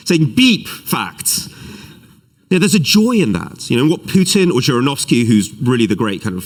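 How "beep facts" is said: a mock censor bleep in place of the swear; censor beep. Shown as a demonstration. Speaker on a live stream bleeping out a swear at facts. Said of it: "That was so weak".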